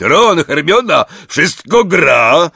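a big friendly giant reminiscing; Hagrid's voice. A narrator's reading. Hagrid to Harry, fondly remembering.

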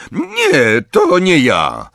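high, loud panicked denial; a boy protesting his innocence in alarm; frantic denial. A narrator's reading. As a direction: deny it in a scared rush. Boy denies hurting sister.

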